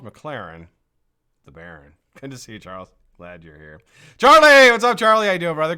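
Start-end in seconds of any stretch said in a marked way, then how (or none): 4.2-5.8 high, loud hello called out; big, loud welcome for a regular; excited shout-out. Real, not acted. Shouting hello to chat member.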